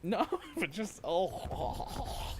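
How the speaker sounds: wincing groans. Real, not acted. Wincing at the replay.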